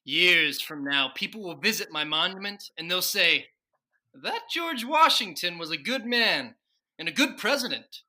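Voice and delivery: emphatic, declaiming presidential speech; grand proclamation. Acted. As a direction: proclaim it proudly to posterity. Washington's grand speech defending Lenny.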